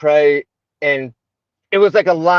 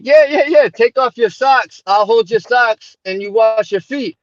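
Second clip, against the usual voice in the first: eager sheikh; 6 semitones higher than usual. Retold or imitated. Sheikh cheerfully urging the new convert to wash his feet, high and eager. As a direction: brush off his doubt with an eager yes, yes, yes. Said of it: "And he's like".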